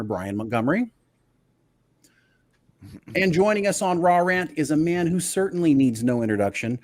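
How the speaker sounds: big, bright announcer welcome to the listeners; host hyping up the podcast opening, welcoming listeners and the panel guests; show host intro. Acted.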